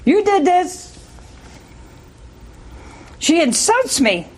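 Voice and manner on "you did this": accusing wife. Retold or imitated. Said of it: "She said".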